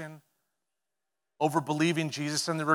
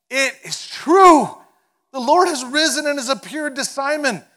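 joyful proclamation; 10 semitones higher, 11 dB louder than usual. Acted. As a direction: proclaim it like the best news ever. Disciples proclaim resurrection.

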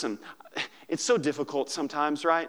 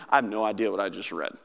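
baffled reader; 9 semitones lower, faster than usual. Retold or imitated. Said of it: "you went".

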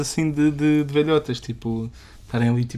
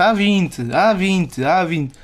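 calling the number out across a shop; 5 semitones higher, much slower than usual. Retold or imitated. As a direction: call it out, higher then fading. Clerk calling out ticket number.

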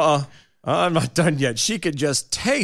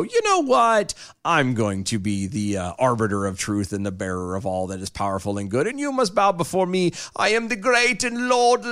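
mock grandiose ruler. Mock-voicing the governor.

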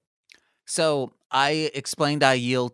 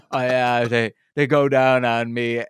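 weird voice; 6 dB louder than usual. Retold or imitated. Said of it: "in this weird voice".

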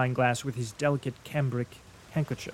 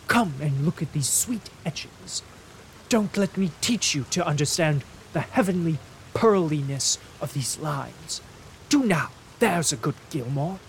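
higher, coaxing appeasement; placating invalid, higher; fussy placating invalid; 4 semitones higher, 4 dB louder than usual. Acted. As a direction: soothe him like a fragile aesthete. Fairley soothing the angry lawyer.

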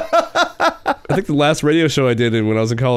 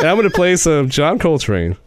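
laid-back jazz DJ; 4 semitones higher than usual. Retold or imitated. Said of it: "it was basically like that".

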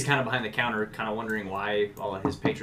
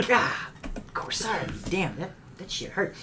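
higher, pained little barkeep voice; gnome in pain; 7 semitones higher, slower than usual. Acted. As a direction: nurse the broken nose while talking. Barkeep after broken nose.

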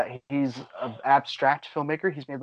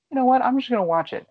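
excited; 12 semitones higher, 4 dB louder, faster than usual. Retold or imitated. Retold own thought, suddenly decided.

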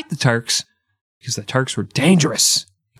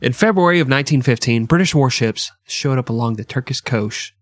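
too fast. Real, not acted. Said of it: "Sorry, I was going too fast".

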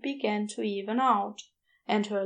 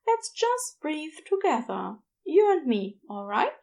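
lightly voiced gentle angel, higher and soothing; 5 semitones higher than usual. Aziraphale soothing a frightened girl.

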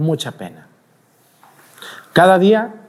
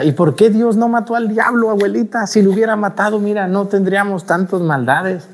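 high-pitched imitation of his childhood self; questioning grandchild; 6 semitones higher than usual. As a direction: plead with grandma in a raised child's voice. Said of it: "yo le dije a mi abuelita".

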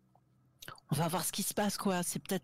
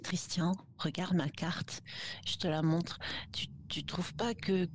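whispering; 2 semitones lower than usual. Acted. Secretly confiding to a friend.

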